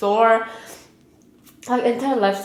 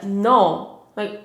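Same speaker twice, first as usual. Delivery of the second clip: retold angry comeback. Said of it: "And I was so mad".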